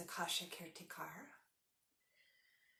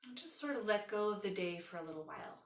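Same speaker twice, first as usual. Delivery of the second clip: unhurried yoga nidra guidance with long pauses; guided meditation. Acted. Leads a guided relaxation.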